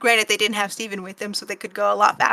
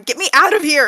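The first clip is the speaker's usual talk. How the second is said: higher, louder mock cry for help; mock scream; 5 semitones higher, 6 dB louder than usual. Amethyst bursting out of her room, mock screaming. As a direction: call out in hammed-up panic. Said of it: "coming out of her room screaming".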